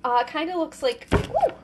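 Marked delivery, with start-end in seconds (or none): 1.1-1.5 sudden high ooh of surprise; surprised. Real, not acted. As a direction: caught off guard, a quick high ooh. Sudden reaction while cutting the fruit.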